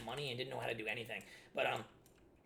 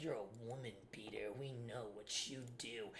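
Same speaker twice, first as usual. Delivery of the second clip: imitating aunts; 4 semitones lower, 9 dB quieter than usual. Aunts accusing him at party.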